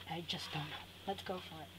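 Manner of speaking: whispered to herself; whispering. Real, not acted. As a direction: breathe it out unsure. Unsure, talking to herself.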